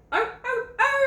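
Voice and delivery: high howling arr arr arr; bay like a hound; hound dog bark. Retold or imitated. Imitating the hound dog barking at cows, high baying. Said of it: "he kinda barks a little different".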